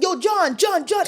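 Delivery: high-pitched mock call for John; imitating people hollering a name; retold calling out. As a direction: call out over a crowd without real volume. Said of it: "me yelling".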